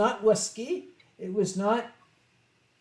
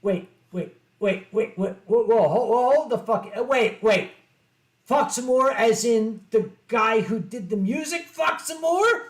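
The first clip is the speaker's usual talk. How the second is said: stunned disbelief; 3 dB louder than usual. Retold or imitated. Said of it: "I was like".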